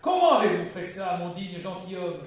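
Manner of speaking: hungry to hear how; ecstatic question. Acted. Innkeeper eagerly asking the gentleman how he did it. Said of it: "en extase".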